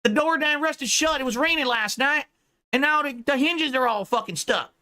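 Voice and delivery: high ranting mock accent; mock Ralph accent. Host improvises a parody, high whiny mock Ralph accent. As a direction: improvise a whiny stuck-in-a-shed rant. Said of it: "this is not your wheelhouse".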